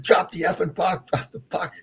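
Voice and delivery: high-pitched, drawn-out yell at the referee; retold yelling. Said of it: "I started yelling at him".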